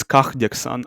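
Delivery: "kahdeksan" with an audible, throaty H before the D; "kahdeksan" said slowly, H fully voiced as a rasp; H pronounced. Shown as a demonstration. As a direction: sound out the H in "kahdeksan". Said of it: "if they pronounce the h".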